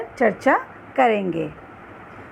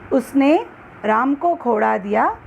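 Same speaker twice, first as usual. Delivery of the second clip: उसने stressed and set off by a pause. Shown as a demonstration. Teacher shows how emphasis changes a sentence's meaning, stressing उसने. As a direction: lean on उसने, then pause before the rest. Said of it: "अलग-अलग शब्दों पर जोर देकर".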